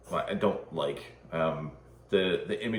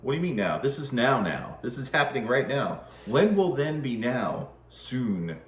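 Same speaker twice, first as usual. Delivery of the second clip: Spaceballs quote; 4 semitones higher, 5 dB louder than usual. Retold or imitated. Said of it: "that scene from Spaceballs".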